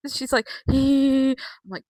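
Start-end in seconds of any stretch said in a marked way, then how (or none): 0.7-1.3 imitated high, loud cackle; crazy laugh. Vlogger mimicking Becky's laughter, mock crazy laugh. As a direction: mimic a wrestler's unhinged giggle. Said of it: "crazy laugh, laughter was awesome".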